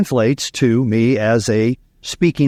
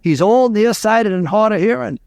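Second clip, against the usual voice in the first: put-on higher-pitched Cajun accent; wise Cajun farmer; 6 semitones higher than usual. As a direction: explain it as the old Cajun farmer. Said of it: "The wise Cajun farmer looked at him and said".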